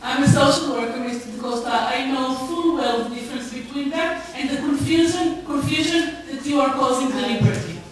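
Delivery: sharp, indignant, and loud at the start; speeding up into an accusation; indignant retort. Real, not acted. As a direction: push back hard, offended at being lectured. Social worker rebuts condescending offer.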